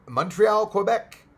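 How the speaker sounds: Quebec called out high and loud, with a rising lilt; excited call-out. Acted.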